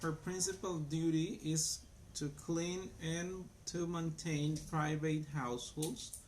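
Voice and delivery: clear, careful teacher read-aloud; slow model reading. Shown as a demonstration. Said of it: "I will read it again".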